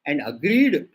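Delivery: "agreed" punched and stretched; stress on agreed. Shown as a demonstration. Lecturer dictating a clause to be underlined, stress on "agreed". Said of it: "please underline the word agreed".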